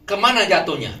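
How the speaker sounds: loud, urgent question; calling out. Acted. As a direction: call out as the prophet asking. Elisha asks where it fell.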